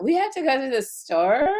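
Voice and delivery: laughing dumb echo. Retold or imitated. Retelling her dumb blonde line while laughing. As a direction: giggle through the clueless line. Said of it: "I just really thought".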